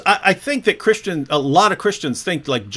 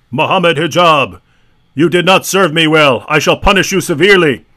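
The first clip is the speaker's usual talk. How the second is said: mock stern God voice; 7 dB louder than usual. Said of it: "Allah says".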